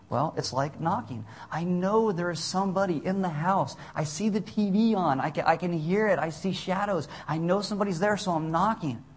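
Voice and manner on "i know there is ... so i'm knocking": higher-pitched voice, insisting someone is home; acted hopeful knocker. Believer knocking at a house door, acted hopeful insistence.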